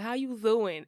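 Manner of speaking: saying How you doing with a Z sound for the D. Shown as a demonstration. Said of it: "put, like, Z's on everything that started with a D".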